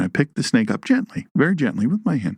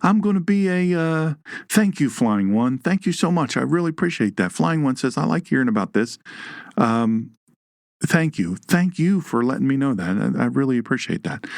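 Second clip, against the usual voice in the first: higher, mock-grateful snake voice; snake's inner voice; 5 semitones higher than usual. The hognose thanking the flying one, in a light mock voice. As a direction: play the snake as a fawning, overly polite creature. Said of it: "So he thought".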